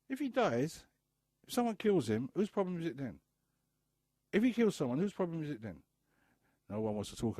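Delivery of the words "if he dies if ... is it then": high and loud, pleading questions; impassioned outcry. Real, not acted. Speaker challenging absent fathers, high and loud. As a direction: hurl the questions at the room.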